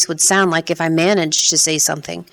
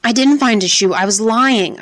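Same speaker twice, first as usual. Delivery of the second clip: higher, desperate cry; 4 semitones higher than usual. Acted. Boy cries out to the policeman holding his hair, higher. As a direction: cry it out in panic. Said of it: "I cried".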